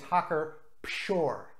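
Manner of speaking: Pschorr with an audible P before the sh; German-style Pschorr, P not silent; P sounded in Pschorr. Shown as a demonstration. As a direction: say Pschorr with the P pronounced. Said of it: "with a P. The P is pronounced in German".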